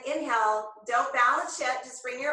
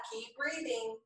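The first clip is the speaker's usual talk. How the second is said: soft reassurance; 9 dB quieter than usual. Real, not acted. Soothing reminder during hard pose.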